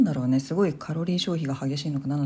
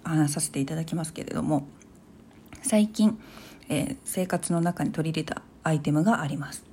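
while sipping a drink; 4 dB quieter than usual. Real, not acted. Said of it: "豆乳スープの量が多いので、ちょっと飲みながら".

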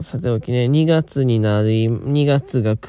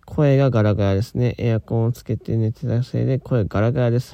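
raspy morning voice; hoarse voice. Real, not acted. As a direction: speak through a rough, hoarse throat. (ガラガラ声)

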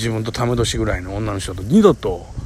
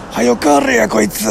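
higher, louder mock-rude inner thought; a hint of a snide woman thinking it; imagined inner voice; 10 semitones higher, 4 dB louder than usual. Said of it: "俺心の声が聞こえてるやん". (女性の心の声を想像した軽い悪態)

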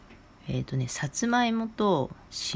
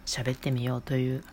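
while sipping a drink; 4 dB quieter than usual. Real, not acted. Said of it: "ちょっと咀嚼音が入ります".

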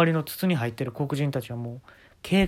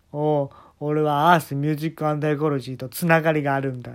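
boastful teller; 5 dB louder than usual. Retold or imitated. Jacob repeats the boast.

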